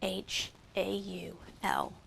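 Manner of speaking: slow whispered spelling; slow unvoiced letter-by-letter whisper. Shown as a demonstration. Teacher spells answer under breath.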